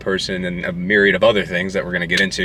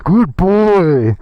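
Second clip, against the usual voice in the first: mock praise; 8 semitones higher, 4 dB louder than usual. Praising girlfriend playfully.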